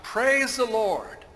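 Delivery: shouted praise, high and drawn out; exuberant shout. Acted. Faithful old lady to all from her porch, exuberant shout. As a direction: cry it out slowly and loudly from the porch. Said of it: "and shout".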